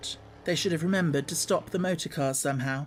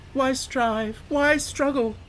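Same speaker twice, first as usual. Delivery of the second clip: higher and rising, struggle building; rising temptation; 9 semitones higher, 4 dB louder, much slower than usual. Acted. Toad talking to himself, rising excitement. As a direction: give in, voice climbing.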